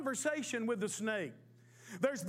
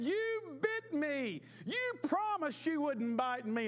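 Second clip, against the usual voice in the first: higher, drawn-out cry of betrayal; shocked hurt boy; 5 semitones higher, slower than usual. Acted. Boy scolding the snake that bit him, high and hurt. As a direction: wail it like a bitten child.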